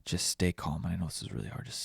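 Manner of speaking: hushed, breathy calming words to self; soft inner voice telling yourself to stay calm; calming self-talk. Retold or imitated. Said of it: "that quote kept popping up in my head".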